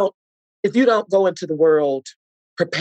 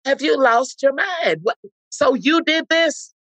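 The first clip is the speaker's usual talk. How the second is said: incredulous scolding; 9 semitones higher than usual. Retold or imitated. Mother scolding son at home.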